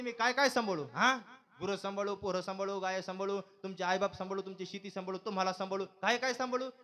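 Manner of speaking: mock-weepy wife, loud and pleading; tearful complaining wife. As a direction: wail out the list of chores like a put-upon wife. Wife's complaint acted in story. (रडवेल्या सुरात तक्रार करणारी बायको)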